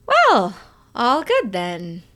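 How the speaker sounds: slow, dark, tight reply; a hint of menace under calm; darker voice. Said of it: "an octave darker than usual".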